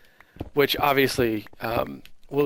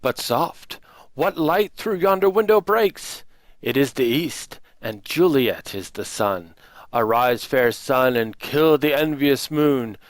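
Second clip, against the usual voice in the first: Shakespearean lover's soliloquy, swelling and lifting; grand verse delivery with punched phrases; theatrical declamation; 2 semitones higher, 4 dB louder than usual. Acted. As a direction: declaim it like a stage Romeo. Performs Romeo's balcony speech.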